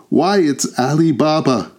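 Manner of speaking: high, delighted burst of recognition; ecstatic exclamation. A narrator's reading. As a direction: exclaim it in rising joy. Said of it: "exclaimed in ec-, ecstasy".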